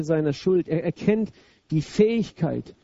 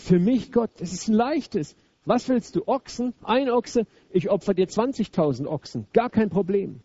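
prahlerisch nachgeahmt; 3 semitones higher than usual. Pretend. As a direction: toss off the offer like a show-off. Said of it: "Er sagt". (hochmütig-prahlerischer Tonfall, gespielt)

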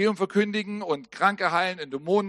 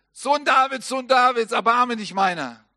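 retold cry for help; 4 semitones higher, 4 dB louder than usual. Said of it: "und schreit".

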